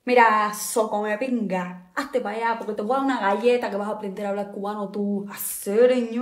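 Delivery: angry Cuban Spanish, fast and fired up; Cuban accent. Pretend. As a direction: slip into a fierce Cuban accent to prove it. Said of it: "igual y sí se me sale el acento".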